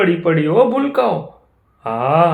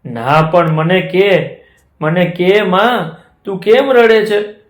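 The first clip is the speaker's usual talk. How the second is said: pleading calf; 5 semitones higher, 3 dB louder than usual. Acted. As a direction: beg mother for the truth. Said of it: "વાછરું કે".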